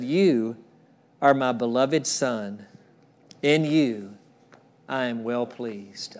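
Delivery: slow, hushed blessing from heaven; tender voice of God. Acted. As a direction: let the Father's blessing land gently. God's voice from heaven, read.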